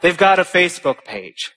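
nervous student warning of protests, hammed-up alarm. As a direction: rattle off the threats in rising panic. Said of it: "the very nervous two or three conservatives".

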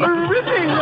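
a hint of a stuffy aristocrat grumbling about the shoot; mild mock upper-class bluster; pompous Lord Bottomley. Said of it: "No one sounds like that".

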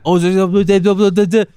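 high, loud mock babble rising to a drawn-out shout; hammed-up French caster building to a yell; French commentator imitation. Mocking French Melee streamers to friends, hammed-up excited shouting.

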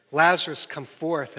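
loud call on the name, then steady; commanding call. Retold or imitated. Jesus at the tomb commanding Lazarus, loud call. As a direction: call the dead man out with authority. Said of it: "Jesus commands".

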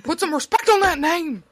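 big high shout. Pretend. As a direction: yell it out, way up high. Shouted catchphrase.

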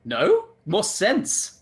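"sense" slow and clearly said; stress on sense. Shown as a demonstration. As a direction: draw out "sense" to correct. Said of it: "Did you say get more sex".

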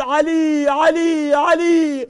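high calls of the name rising each time; calling out. Acted. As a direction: call after a dying son. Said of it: "He's calling out".

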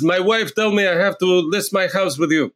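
a hint of a badly faked Brazilian accent; terrible Brazilian accent. Man calling from Brazil to list his house, bad Brazilian accent. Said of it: "That was a terrible accent".

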